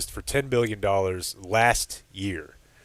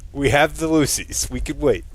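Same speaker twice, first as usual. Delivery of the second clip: high excited pleading; 6 semitones higher than usual. Retold or imitated. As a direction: squeak it out, begging to wait. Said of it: "was like".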